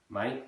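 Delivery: "Mate" with wide vowel, like "mite"; East London pronunciation. Shown as a demonstration. Teacher demonstrating East London, "Mate" as wide "mite". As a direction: widen "Mate" towards "mite". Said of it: "Nice wide vowel for that one".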